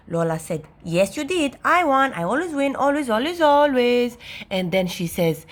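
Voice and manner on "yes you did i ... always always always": put-on higher-pitched, sing-out child boasting; insistent little sister. A narrator's reading. Little sister argues she always wins, insistent. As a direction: insist like a stubborn small girl.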